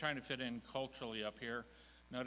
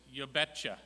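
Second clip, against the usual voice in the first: a light Minnesota you betcha, betcha falling; 5 dB louder than usual. Shown as a demonstration. Speaker demonstrating a third Minnesota phrase, lightly. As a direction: toss off you betcha like a local. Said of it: "And the other one is".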